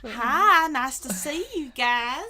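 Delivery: bright, friendly snake greeting; cheery lisping snake. Pretend. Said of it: "they should just do".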